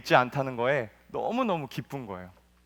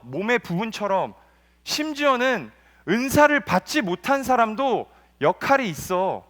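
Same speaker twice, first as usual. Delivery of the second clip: raised, insistent preaching; 7 semitones higher, 6 dB louder than usual. Acted. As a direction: drive the point home to the congregation. Preaching Paul's point.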